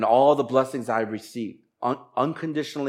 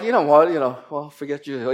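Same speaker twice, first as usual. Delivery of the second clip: mock snub; 3 dB louder than usual. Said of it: "I'm kidding".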